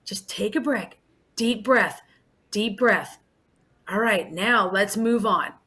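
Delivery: put-on hushed and reassuring, like talking a toddler down; soothing teacher voice. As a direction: gently settle a frustrated child. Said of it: "I'm like".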